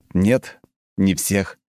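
slow, hard refusal; firm and hard. Acted. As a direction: cut him off firmly. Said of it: "жёстко ответил я". (жёстко, твёрдо)

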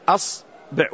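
أصبع opening on a short a, "as-"; fatha on hamza. Shown as a demonstration. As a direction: say أصبع split, starting "as-". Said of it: "وأتي بها مفتوحة".

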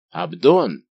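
a loud call out the window; loud shout calling a clerk. A narrator's reading. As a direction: yell the name down to the yard. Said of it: "закричал Планше в окно".

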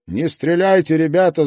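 loud, high plea; yelling. A narrator's reading. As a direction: yell it across the tunnel. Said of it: "заорал я по-французски".

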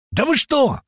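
high-pitched cry of protest; indignant cry. Acted. Young man turning on the group, crying out. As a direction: cry out in outraged disbelief, without much added volume. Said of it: "крикнул парень".

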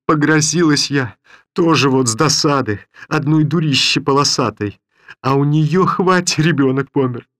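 put-on an old grandmother cursing her persecutors; old woman's angry rant. A narrator's reading. Grandmother rails against the villagers who drove her out, angrily.

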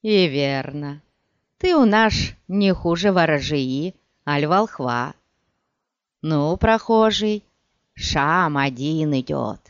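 lisping thug, s slurred to sh as in "шам" and "швоей"; slushy sh for s. Acted. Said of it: "слегка шепелявил".

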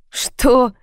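high, surprised laughing question; amused. A narrator's reading. Caller amused at being asked his name, laughing. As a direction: toss it up with a touch of laughter. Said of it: "засмеялся он".

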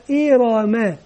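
"إي را ما" run together as one word; syllables joined together. Shown as a demonstration. Teacher asks for the whole word, "إي را ما" blended together. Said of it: "من ينطق الكلمة مع بعضها".

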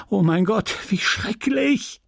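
crying out. A narrator's reading. Wife seized by cramps, crying out. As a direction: cry out, pitch climbing steeply. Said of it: "Sie schrie".

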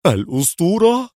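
high amazed exclamation; astonished. A narrator's reading. Cadet exclaiming at the famous name, high and astonished. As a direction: cry out the word in wonder. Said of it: "يهتف في دهشة".

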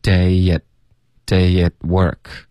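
slow "day at work", y glide and unreleased t in "at"; dropped T, linked. Shown as a demonstration. Teacher modelling for learners, slow "day at work" with silent t. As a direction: teach "day at work" slowly, stopping before work. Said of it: "t的音省略".

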